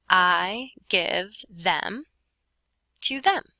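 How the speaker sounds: slow read-out. Shown as a demonstration. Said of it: "And now it says".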